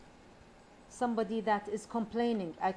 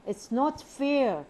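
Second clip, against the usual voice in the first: slow, high and loud, with a big rise-fall peaking on "not"; exaggerated complaint; 5 semitones higher, 5 dB louder, slower than usual. Shown as a demonstration. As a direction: moan it slowly, hitting "not" hard before the fall. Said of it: "The stress is on this word of mourning".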